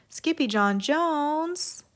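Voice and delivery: high, slow, loud exclamation; cry. Acted. Everyone crying out at the kitty boy, high and loud. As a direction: call his name out in alarm. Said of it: "everyone cried".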